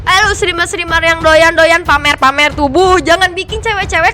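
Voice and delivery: mock scolding. Streamer scolds body-flaunting streamers to camera on request, mock scolding. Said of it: "Marahin coba".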